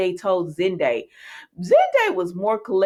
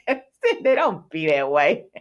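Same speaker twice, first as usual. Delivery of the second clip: laughing scolding; 7 semitones higher, slower than usual. Real, not acted. Scolding Zende on screen, laughing.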